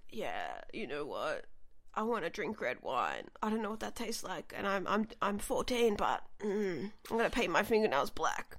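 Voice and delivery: lightly voiced brooding teen. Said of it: "I was like".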